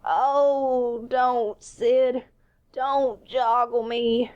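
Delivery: milk the pain, beg him not to shake you. A narrator's reading. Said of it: "Tom moaned out".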